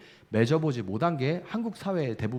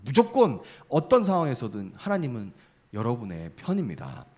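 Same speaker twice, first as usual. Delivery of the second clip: ordinary delivery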